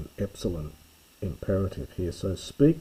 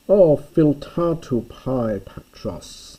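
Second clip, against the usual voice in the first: slow, high, loud joyful cry in Greek; delighted calling out; 6 semitones higher, 8 dB louder, slower than usual. Shown as a demonstration. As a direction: call it out, overjoyed. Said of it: "calling, yelling it out because he's so delighted".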